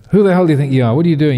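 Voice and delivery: the king bristling with outrage; angry king. Acted.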